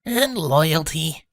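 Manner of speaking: low, slow, bored drone; bored reading aloud. A narrator's reading. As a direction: read it as if utterly uninterested. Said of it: "read out loud in a bored voice".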